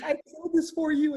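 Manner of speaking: high, delighted gift-giver, imitated; happy neighbor. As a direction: proudly present a gift in a high voice. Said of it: "she was so happy".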